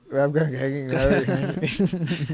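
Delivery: put-on slow drawn-out Boston accent. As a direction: stretch the name in a Boston accent. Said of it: "now do we gotta do Boston accents".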